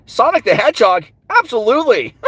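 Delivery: bright cocky hedgehog voice; Sonic voice. Acted. Doing character voices on request.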